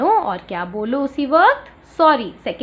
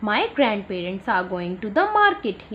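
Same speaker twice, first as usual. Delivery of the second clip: very slow, word by word; slow read-aloud; 3 semitones lower, much slower than usual. Shown as a demonstration. Teacher reading the caption to the class, very slow. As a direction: read the written line out slowly. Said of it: "लिखा है ना यहाँ".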